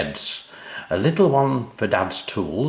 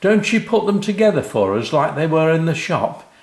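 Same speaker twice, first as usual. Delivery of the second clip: surprised dad; 8 semitones higher, 5 dB louder than usual. A narrator's reading. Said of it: "said Dad".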